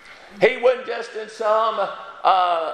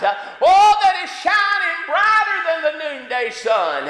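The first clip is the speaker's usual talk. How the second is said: preaching at full force; 7 semitones higher than usual. Acted. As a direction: lift the congregation toward glory. Preacher builds to climax.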